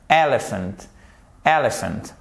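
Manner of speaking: Elephant with stress on the first syllable EL; stressed EL-ephant; English elephant. Shown as a demonstration. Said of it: "accent tonique ... première syllabe".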